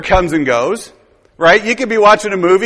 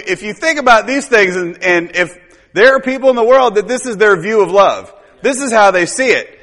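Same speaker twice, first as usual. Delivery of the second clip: ordinary talk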